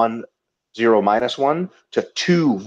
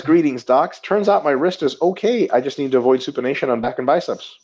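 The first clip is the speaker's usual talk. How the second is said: reading as Ito; 3 semitones higher than usual. Pretend. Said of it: "Ito Dagul says".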